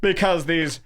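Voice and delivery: high, slow, leering mock creep; Anthony Cumia. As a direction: draw it out with creepy relish. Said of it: "He goes".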